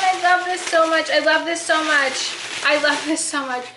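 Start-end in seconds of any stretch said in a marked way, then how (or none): 0.0-1.1 I love this so much, high and loud; squealed excitedly. Real, not acted. Repeats, first take squealed. 1.1-2.4 high, loud gushing, fading down; overwhelmed by cuteness. Real, not acted. Unboxing chalkboard, overwhelmed.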